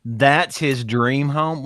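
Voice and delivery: incredulous. Real, not acted. Incredulous at the photo.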